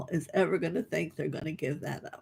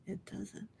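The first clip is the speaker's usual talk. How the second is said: the same words again, much softer; soft echo; 11 dB quieter than usual. Real, not acted. Healer echoing herself to the group, much softer. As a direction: let the repeat fall almost silent. Echoing her own point.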